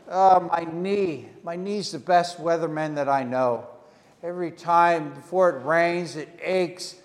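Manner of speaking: mock moaning about a sore knee; groaning complaint. Old man complains about knee.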